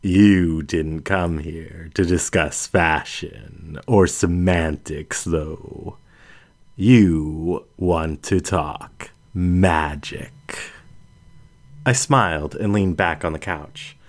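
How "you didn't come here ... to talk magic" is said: a hint of darker, slower lioness; darkening voice. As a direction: let the tone slowly grow more serious. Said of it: "her voice darkening".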